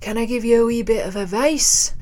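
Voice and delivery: put-on Scottish pub punter; Scottish accent. Man to gigging musician in a pub, Scottish accent. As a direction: imitate a Scottish man's accent. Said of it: "so forgive the accent".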